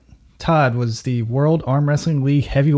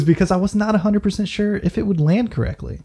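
usual speaking voice

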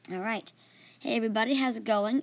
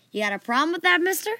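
confrontational, higher and louder; sarcastically polite threat; 7 semitones higher, 5 dB louder than usual. Acted. Dragon-like girl challenges boy who called her bald, confrontational. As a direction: challenge them, pitch climbing. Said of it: "Jerry politely responded with".

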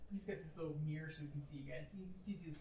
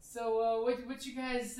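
gruff pilot; 4 semitones higher, 8 dB louder, slower than usual. Acted. GM voices pilot greeting players.

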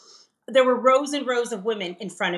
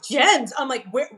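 angry, dissatisfied; 4 semitones higher than usual. Retold or imitated. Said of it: "I was so angry and, like, dissatisfied".

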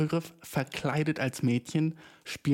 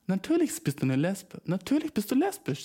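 sarcastic; 6 semitones higher than usual. Retold or imitated. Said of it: "wo du bist so".

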